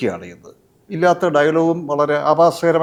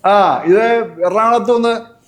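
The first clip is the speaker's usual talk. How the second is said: slow, deliberate old-time phone call, lightly acted; imitated trunk caller; 3 dB louder, slower than usual. Asking on a trunk call if Krishnakumar is there, imitated caller. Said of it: "ചോദിക്കും".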